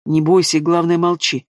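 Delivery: ordinary delivery, nothing marked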